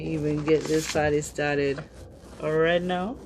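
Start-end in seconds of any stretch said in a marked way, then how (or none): 2.4-3.2 jazzy voice. Pretend. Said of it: "I don't know why I'm talking like that".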